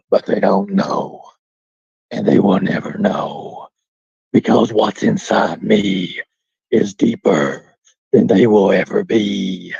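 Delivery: low, slow, ominous villain speech; scary deep voice. Pretend. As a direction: draw it out deep and menacing. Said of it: "God dang, it's scary".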